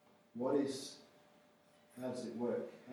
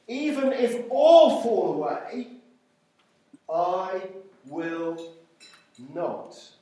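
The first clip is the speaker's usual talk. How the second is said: emphatic declaration; 3 semitones higher, 7 dB louder, slower than usual. Acted. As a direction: declare it boldly, pausing between the last words. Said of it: "Peter declared".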